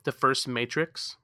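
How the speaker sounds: talking while chewing cashews; mouth full. Real, not acted. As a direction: say it through a mouthful of nuts. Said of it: "Sorry, I'm munching on some cashews".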